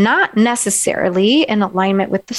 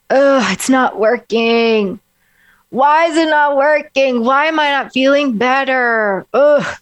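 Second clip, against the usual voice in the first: deflated moping; 3 semitones higher than usual. Shown as a demonstration. Coach demonstrating a defeated, slouching mood. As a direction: let the voice sag like you are slumped. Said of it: "my voice just goes lower".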